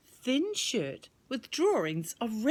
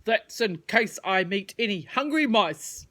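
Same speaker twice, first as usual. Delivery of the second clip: worm voice; 5 dB louder than usual. Acted. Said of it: "he said".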